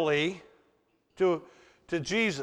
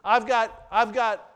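mock casual prayer; 3 semitones higher than usual. Mocking demanding prayers.

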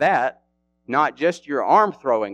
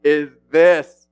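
loud, higher mocking disbelief; Goliath scoffing at young David, loud and high; scornful giant; 4 semitones higher, 5 dB louder, slower than usual. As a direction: sneer at the boy in disbelief. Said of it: "He was like".

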